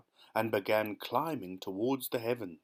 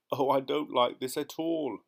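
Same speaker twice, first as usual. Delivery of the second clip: a mild, lightly raised wail; 3 semitones higher, 4 dB louder than usual. Acted. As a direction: complain with a hint of a wail. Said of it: "wailed the earthworm".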